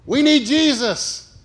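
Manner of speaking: slow, high dawning realization; a lightbulb moment, drawn out; sudden realization. Retold or imitated. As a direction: let the idea land slowly. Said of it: "The light came on".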